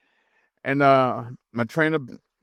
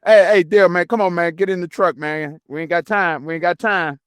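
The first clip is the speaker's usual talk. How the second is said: urgent trainer; 3 semitones higher, 4 dB louder than usual. Retold or imitated. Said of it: "he was like".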